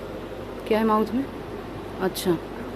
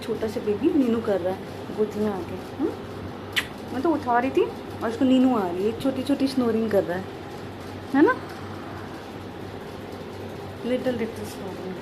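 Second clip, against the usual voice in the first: soft cooing over a sleepy little one; 8 dB quieter than usual. Real, not acted. Mother over her child dozing in her lap, soft and tender.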